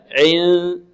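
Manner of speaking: long hidden n after ع; hidden noon, ikhfa. Shown as a demonstration. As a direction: glide from ع into a held nasal hum, poised for د. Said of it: "تخفى هذه النون". (إخفاء النون بعد العين استعدادًا للدال)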